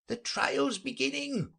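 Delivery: high, drawn-out announcing call; distant cry. Acted. Court crier heard in the distance, high cry. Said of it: "when a cry of".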